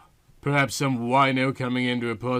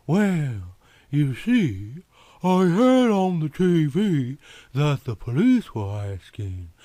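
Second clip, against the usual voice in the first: slow Southern drawl, lingering on words; lazy Southern woman explaining. Acted. Yvonne tells the detective why she came, in a Southern drawl.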